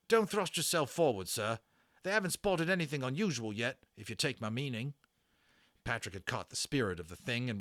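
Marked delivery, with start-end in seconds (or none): 0.1-4.9 a rattled army corporal complaining to his officer; British army corporal. Acted. Corporal advises.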